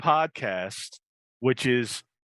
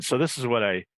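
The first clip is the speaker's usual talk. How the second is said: upbeat host selling a drink; live ad read. Acted. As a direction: pitch it like a live commercial.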